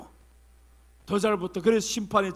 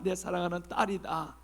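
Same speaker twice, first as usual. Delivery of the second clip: tender; 6 dB quieter than usual. Acted. God addressing believer.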